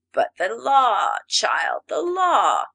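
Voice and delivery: loud, slow, stern rebuke building to a shout; stern cry. A narrator's reading. Master sternly rebuking the defiant nymph, loud. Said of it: "cried Ak sternly".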